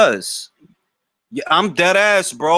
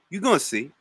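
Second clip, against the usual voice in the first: soft, muttered teasing promise; hushed knowing warning; quiet taunt; 6 dB quieter, faster than usual. Real, not acted. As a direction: say it under your breath, sure of yourself. Teasing a chat member.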